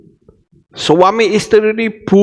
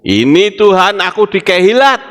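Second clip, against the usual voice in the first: eager reply; 2 semitones higher, 3 dB louder than usual. Acted. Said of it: "Harusnya kan begitu".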